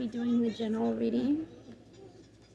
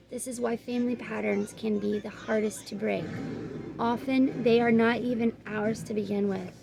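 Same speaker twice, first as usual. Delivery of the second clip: measured, even oracle-card reading; guidebook read-aloud; 5 dB louder than usual. Real, not acted. Reader giving viewers the card's message, measured read-aloud.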